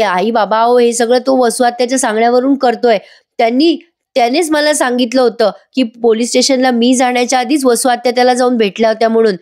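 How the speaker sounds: mock-pitiful appeal; pitiful pleading. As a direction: plead like a helpless daughter-in-law, lightly acted. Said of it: "केविलवाणे सांगतेय".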